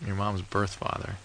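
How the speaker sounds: birth stressed, slow and pointed; echoing with stress. Retold or imitated. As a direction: lean hard on birth, slow. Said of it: "Why, why do you say it like that?".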